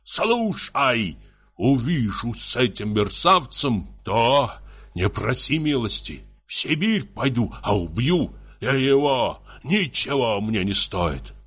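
angry threats. Acted. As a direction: threaten her as a jealous husband. Husband threatens wife in acted quarrel.

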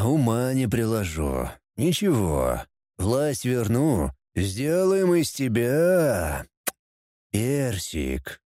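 smack lips over a doll; lecherous purr. Acted. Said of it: "причмокнул он губами".

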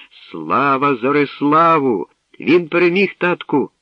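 loud, high joyful cry; loudly. A narrator's reading. Princess Mirosia tells her father of the win, loud joyful cry. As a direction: shout the victory to your father. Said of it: "голосно сказала Мирося".

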